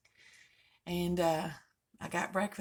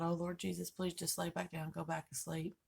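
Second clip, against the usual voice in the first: pleading thought; 2 semitones lower, 7 dB quieter than usual. Retold or imitated. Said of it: "and I thought".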